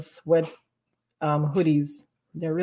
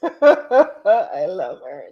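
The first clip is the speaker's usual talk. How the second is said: laughing; 3 dB louder, much slower than usual. Real, not acted.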